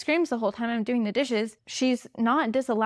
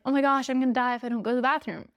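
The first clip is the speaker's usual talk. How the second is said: dramatic; much faster than usual. Retold or imitated. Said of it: "it doesn't need to be a dramatic thing".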